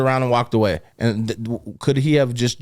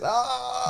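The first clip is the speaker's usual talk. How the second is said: mock tased yelp; 10 semitones higher, 7 dB quieter than usual. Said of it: "I'll be on the ground like this".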